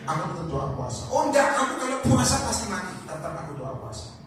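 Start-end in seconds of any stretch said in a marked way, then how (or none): 1.1-4.1 whiny reluctance. Shown as a demonstration. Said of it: "Itu statement".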